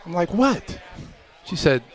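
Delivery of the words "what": high-pitched, startled "What"; incredulous. Retold or imitated. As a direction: imitate a son taken aback by his mother's rebuke. Retells shock at mother's rebuke.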